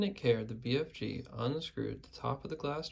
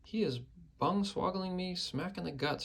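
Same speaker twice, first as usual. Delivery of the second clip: high furious shout; angry shout; 7 semitones higher than usual. A narrator's reading. Giant kicked in the guts shouts, high and furious. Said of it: "shouted the gizzard gulper".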